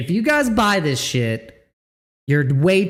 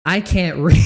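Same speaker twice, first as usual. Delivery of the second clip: mock quote, laughing; 4 dB louder than usual. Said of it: "I'm just like you".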